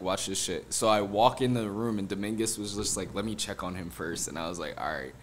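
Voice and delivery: low, soft, hushed words while creeping in; hushed sneaking. Retold or imitated. Friend sneaking into the bedroom, hushed and conspiratorial. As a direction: keep it down so the sleeper won't wake.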